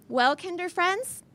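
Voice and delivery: high, loud cheery teacher voice; rally the kids with forced cheer; kindergarten teacher voice. Acted. Teacher distracting kids from blood.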